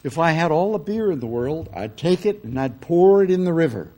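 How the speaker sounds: a hint of a fervent Southern preacher; preaching minister. Quoting a Southern minister's fiery temperance line. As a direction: lightly preach it from the pulpit. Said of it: "With great expression".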